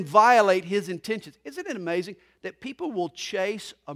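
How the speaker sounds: loud, emphatic pulpit delivery; preaching. Real, not acted. Pastor explaining why Jesus muzzled a miracle, loud preaching. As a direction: hammer the point home.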